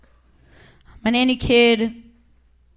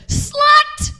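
much higher mock yell of slut; mock yelled insult. Street tough yelling at passing cyclist, mock yell. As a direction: fling the word like a street tough. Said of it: "this is what she yelled".

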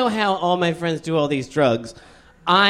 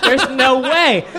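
retold disbelief; 3 semitones higher than usual. Acts out his disbelief at news.

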